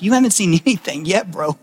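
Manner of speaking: laughing, offhand paraphrase of Jesus; casual bro talk. Retold or imitated. Pastor voicing Jesus to Nathanael as a casual laughing bro. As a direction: toss it off like a buddy with a chuckle. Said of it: "then Jesus is saying here, like".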